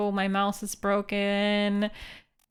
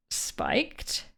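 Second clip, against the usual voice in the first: whispered; 7 dB quieter than usual. Real, not acted. Doubting his own guess.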